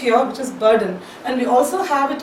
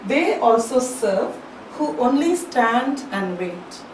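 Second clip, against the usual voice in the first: slow poem recitation; slower than usual. Shown as a demonstration. Reciting the key line.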